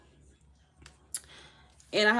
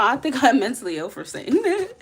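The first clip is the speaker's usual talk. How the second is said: louder words melting into laughter; laughing; 4 semitones higher, 6 dB louder than usual. Real, not acted. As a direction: laugh at yourself. Laughing at herself.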